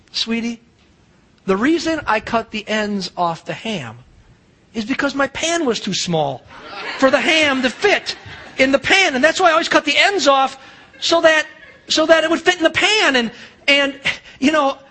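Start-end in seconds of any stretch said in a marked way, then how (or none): 0.1-6.4 put-on gentle old grandma. Great grandma explains gently. 7.0-13.2 laughing grandma. Acted. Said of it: "on the phone laughing, just roaring".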